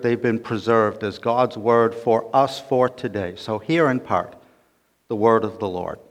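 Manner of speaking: measured, solemn reading voice; scripture reading. Acted. Pastor reading Ephesians to the church, solemn. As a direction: read the Word with gravity.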